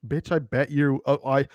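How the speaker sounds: a hint of someone else's uppity challenge; Krug. Player imagining castmate answering "my body is my weapon", lightly imitated voice. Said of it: "think in Krug's voice".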